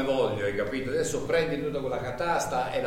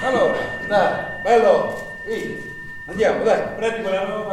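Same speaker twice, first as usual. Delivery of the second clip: louder, higher call across the yard; 5 semitones higher, 6 dB louder than usual. Acted. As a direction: boss hollering at a new worker. Foreman calling worker over.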